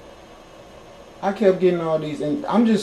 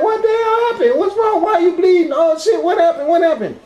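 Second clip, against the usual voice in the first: much higher and louder, frantic questions; alarmed; 13 semitones higher, 5 dB louder than usual. Retold or imitated. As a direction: panic at seeing her bleed. Panicked at bleeding girlfriend.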